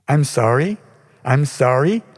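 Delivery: high, loud sarcastic echo of her words; loud mocking mimicry. A narrator's reading. Artist mocking the receptionist's apology, loud sarcasm. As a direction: throw her apology back at her, loudly. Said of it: "I mimicked her words, still speaking very loudly".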